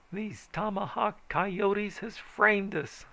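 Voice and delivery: high, slow squalling accusation; high slow outraged squall. A narrator's reading. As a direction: squall it as he goes for his gun. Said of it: "squalled a gunstock man".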